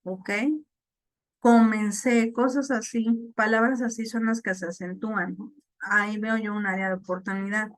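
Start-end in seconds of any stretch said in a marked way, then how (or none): 1.4-2.3 "Comencé" with the stress on the final "cé"; final-syllable stress. Shown as a demonstration. Teacher showing students a past-tense verb, stress on the last syllable of "Comencé". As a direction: land the accent on the end of "Comencé". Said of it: "ahí también se acentúan al final".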